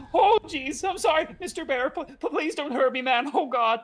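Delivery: hammed-up cartoon terror, high and loud; stammering, panicked pleading for mercy; Jeremy. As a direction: play a scaredy-cat begging a monster. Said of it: "Jeremy's very much like".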